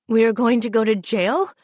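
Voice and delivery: frightened, lip quivering; quivering, near tears. Acted. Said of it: "her lip quivering".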